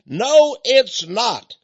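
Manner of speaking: a heckled woman fires back loudly; defiant. Retold or imitated. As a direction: shoot the objection down. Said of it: "She said, quote".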